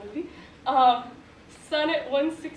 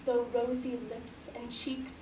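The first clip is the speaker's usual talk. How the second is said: measured Shakespeare reading with pauses at line ends; formal, composed verse delivery; sonnet recitation; 4 dB quieter than usual. Acted. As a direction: recite the sonnet deliberately, phrase by phrase.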